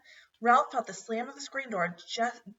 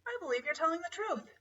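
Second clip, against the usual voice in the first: wonder; 9 semitones higher, 3 dB quieter, faster than usual. A narrator's reading. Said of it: "with wonder in his voice".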